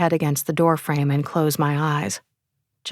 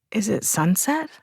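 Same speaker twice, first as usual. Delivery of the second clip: sleepy voice; 4 semitones higher, 3 dB quieter than usual. Acted. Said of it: "I ask in a sleepy voice".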